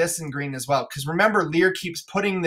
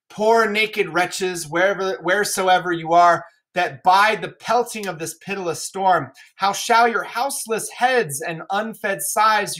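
remorseful Lear. Acted. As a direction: mourn what you neglected. Lear's speech on poor wretches.

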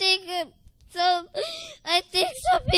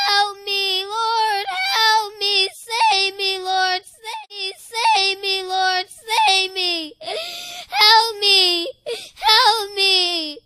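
louder, wailing plea of the suffering souls; pleading cry; 5 dB louder, much slower than usual. Retold or imitated. Retelling souls in the cells begging the Lord, wailing plea. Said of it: "there was people crying".

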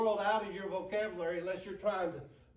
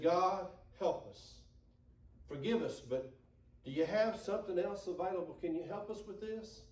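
humble prayer. Retold or imitated.

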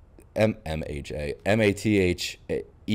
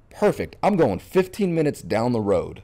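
excited; 5 semitones higher than usual. Retold or imitated. Thrilled at local team guess.

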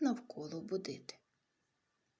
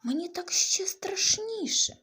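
much higher and louder, slow "Не кричи"; frightened plea; 11 semitones higher, 10 dB louder, slower than usual. Acted. Bunny to the hooting owl, loud frightened plea. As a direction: cry out in fear for the owl to stop.

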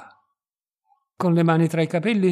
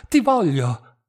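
louder, rising passion, stress on ti; as if drunk with desire; 7 dB louder, slower than usual. A narrator's reading. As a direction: ti voglio pushed out loud, ti stressed. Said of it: "diss'egli ancora com'ebbro".

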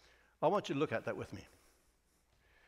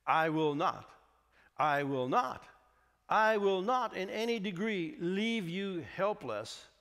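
emphatic scripture reading; 3 semitones higher than usual. Acted. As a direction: let each promise land separately and firmly. Reads scripture aloud emphatically.

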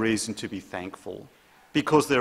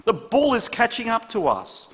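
frantic; 10 semitones higher, 3 dB louder than usual. Retold or imitated. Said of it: "shrieked his friend".

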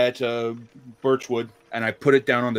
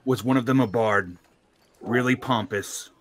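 excited; 5 semitones higher, 9 dB louder than usual. Acted. Side question about bard.

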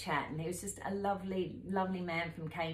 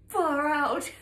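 exasperated exclamation; 10 semitones higher, 8 dB louder than usual. Retold or imitated. Exasperated at being sent around.

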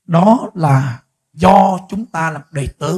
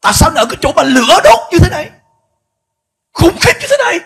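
rising higher and higher, aghast at the fire; shocked question; 8 semitones higher, 7 dB louder than usual. Retold or imitated. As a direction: ask in growing horror, voice climbing high. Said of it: "ông hỏi vậy".

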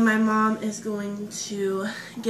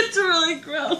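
disgusted laughing; 7 semitones higher, 4 dB louder than usual. Real, not acted. Tasting a gross jelly bean.

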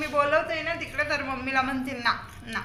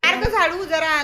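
cheering on; 4 semitones higher, 6 dB louder than usual. Real, not acted. Urging baby to sweep.

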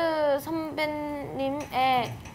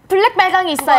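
home shopping host; 4 semitones higher, 8 dB louder, faster than usual. Pretend. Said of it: "홈쇼핑처럼 막 해줘야 돼요".

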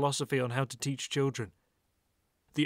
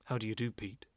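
a lightly voiced German accent, lower and softer; German-accented greeting; 4 semitones lower, 6 dB quieter than usual. Gallery owner Franz greets Pete, light German accent. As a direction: greet him stiffly in a mild German accent. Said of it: "a very strong German accent".

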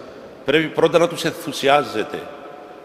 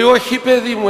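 emphatic no; 8 semitones higher, 5 dB louder than usual. Retold or imitated. Elder repeats denial emphatically.

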